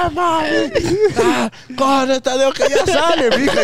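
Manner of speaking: high, drawn-out mock cries; retold cries. Cries heard from the door, high and stretched. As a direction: imitate cries from behind a door. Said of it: "escucha gritos de la puerta".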